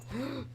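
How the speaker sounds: high sharp intake of breath; startled gasp. Real, not acted. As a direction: gasp in alarm. Animal wanders into danger.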